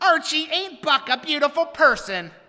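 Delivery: high, loud, whiny drawn-out voice. Retelling a scene where Edith speaks to Archie alone, Edith's whiny voice. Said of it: "Edith says in her whiny voice".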